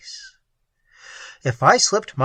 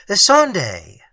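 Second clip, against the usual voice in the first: loud fearful call of her name; frightened call; 4 semitones higher, 6 dB louder than usual. A narrator's reading. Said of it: "I called again, my tongue stiff with fright".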